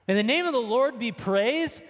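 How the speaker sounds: repeated back in disbelief, rising; as if you can't believe he said it; incredulous echo. Retold or imitated. Preacher echoing Job's words to the congregation in disbelief.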